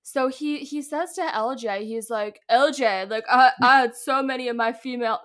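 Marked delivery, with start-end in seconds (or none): 2.5-5.2 lightly voiced mocking man voice, louder; a hint of a mock TV host, pushed louder; Jeff Probst impression. Host addressing a player at the reunion, mock man voice. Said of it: "are you laughing at my Jeff".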